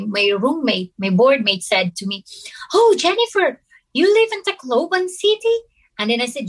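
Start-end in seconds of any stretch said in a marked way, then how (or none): 2.7-5.6 roommate's voice. Retold or imitated. Voicing roommate's question.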